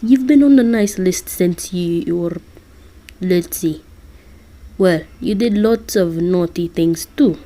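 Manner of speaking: lightly done Russian Santa; bad Russian accent. Santa telling Listener about the nice list, bad Russian accent. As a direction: attempt a Russian accent, half-successfully. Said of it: "I'm terrible at doing a Russian accent".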